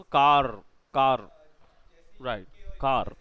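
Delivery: "कार" in a demonstrated British accent. Shown as a demonstration. Tutor showing what Britishers do, "कार" in British accent. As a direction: say "कार" long, British style. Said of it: "British accent होता है".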